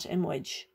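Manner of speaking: imwij with a short clipped vowel; imwij, no fada length; short wrong vowel. Shown as a demonstration. Teacher repeating the wrong ending. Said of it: "it's iamwij".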